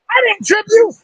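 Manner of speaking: put-on high, indignant little-girl denial; daughter's denial. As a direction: squeak out the denial like his daughter. Daughter voiced in story.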